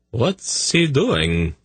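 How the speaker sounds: a touch of worry; nervous question. Acted. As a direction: ask it with nerves showing. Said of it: "Sadi asked nervously".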